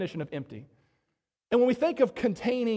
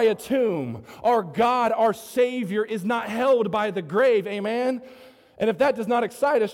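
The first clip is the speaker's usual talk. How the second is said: forceful, raised sermon voice with stretched key words; impassioned preaching; 3 semitones higher, 4 dB louder than usual. Real, not acted. Preacher rallies church over the empty tomb, impassioned preaching. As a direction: proclaim the victory to the congregation.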